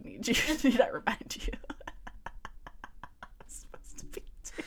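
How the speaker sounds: breathless laughing whisper; whispered giggling. Real, not acted. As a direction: giggle it under your breath. Giggling aside while narrating.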